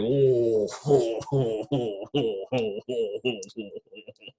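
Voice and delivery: a long, hearty giant's laugh. Shown as a demonstration. Host showing the big giant laugh. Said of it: "Like a big giant, he's like".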